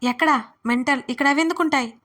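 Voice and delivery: lightly voiced scolding; a hint of a sharp rebuke; mild scolding. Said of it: "అని గదిమాడు". (కొంచెం గదమాయింపు)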